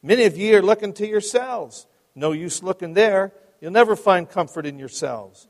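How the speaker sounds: loud, homely Essex pulpit delivery; broad Essex accent. Acted. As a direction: preach with a hint of broad Essex. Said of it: "in his broad Essex accent".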